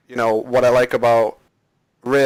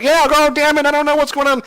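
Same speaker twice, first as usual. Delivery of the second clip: high, loud mock country accent; 14 semitones higher, 4 dB louder than usual. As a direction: play the ghost as a hammed up country voice. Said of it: "he's a very strong country accent".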